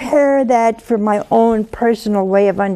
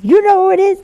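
surprised; 9 semitones higher, 5 dB louder, faster than usual. Retold or imitated. Wife surprised on phone.

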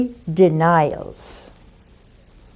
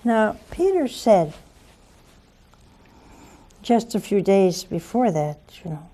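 ordinary talk, nothing marked

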